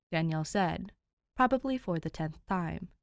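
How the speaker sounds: steady read-aloud storytelling voice; calm narrator reading a fanfic to listeners; story narration. A narrator's reading. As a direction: read it like a bedtime chapter.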